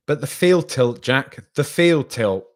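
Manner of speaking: exclamatory. Retold or imitated. Host reading out a viewer's indignant comment, mock exclamatory. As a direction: read it as if littered with exclamation marks. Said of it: "with lots of exclamation marks".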